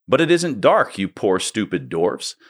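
Lucy pleading. Acted. Reader voices Lucy pleading.

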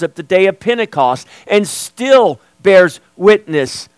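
emphatic sermon delivery with measured pauses; preaching. Real, not acted. Preacher telling church the Spirit bears witness, emphatic preaching. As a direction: preach it with firm stresses on key words.

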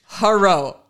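slow, halting mock Japanese-accented English; imitated Japanese accent. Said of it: "he says it just like that".

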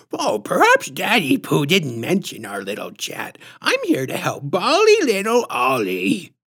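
high, swooping, squishy-throated lisp; patronizing lisp. A narrator's reading. Visitor explaining herself to the mother, patronizing lisp. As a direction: talk down to them in lisping baby-talk. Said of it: "patronizing, squishy-throated lisp".

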